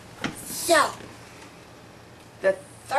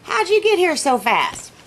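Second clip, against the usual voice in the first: high, loud surprised wolf; startled, hey, raise the voice; 10 semitones higher, 6 dB louder than usual. Acted. Wolf sees the pig in the tree, high and surprised. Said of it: "he's like".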